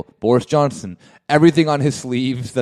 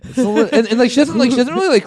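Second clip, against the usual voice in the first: giggling, higher pitch; laughing; 11 semitones higher, 6 dB louder, faster than usual. Real, not acted. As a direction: talk through a giggle. Giggling while telling.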